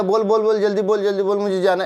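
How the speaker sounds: mock impatient pushing; impatient rude demand. Shown as a demonstration. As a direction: pitch up, hurried impatient nagging. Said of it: "ऐसे नहीं है ना".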